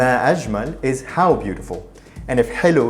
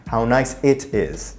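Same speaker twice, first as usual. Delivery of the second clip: slow explaining; slower than usual. Shown as a demonstration. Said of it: "Notice the subtle difference".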